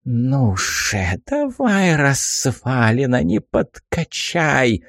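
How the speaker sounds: put-on gleeful old hag egging on; spiteful old woman cheering; old crone voice. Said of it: "зашипела довольная старушенция".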